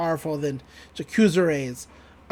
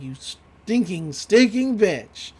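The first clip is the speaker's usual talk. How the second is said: mock furious curse; slower than usual. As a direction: spit it out slowly, losing the fight. Villain pushed back, cursing.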